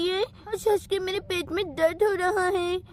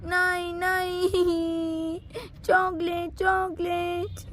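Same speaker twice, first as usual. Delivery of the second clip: put-on whining child; slower than usual.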